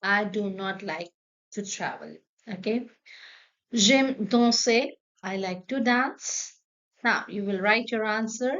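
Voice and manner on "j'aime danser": slow, careful and loud, like a teacher modelling; slow classroom demo; slow model phrase. Shown as a demonstration. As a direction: spell it out slowly for the class. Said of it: "teacher models French phrase".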